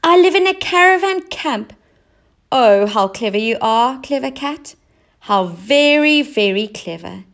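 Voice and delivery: high, loud delighted clown; bursting with relief and joy; overjoyed clown. A narrator's reading.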